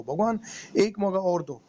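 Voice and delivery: begging God again, drawn out and slow; slow pleading prayer. Retold or imitated. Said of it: "हाथ जोड़े गिड़गिड़ाया".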